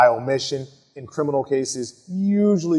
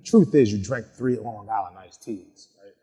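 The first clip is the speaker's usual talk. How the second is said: non-accusatory question, lower pitch; gentle asking; 5 semitones lower than usual. Shown as a demonstration. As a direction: ask it without accusing. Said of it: "I come across less accusatory when I'm asking".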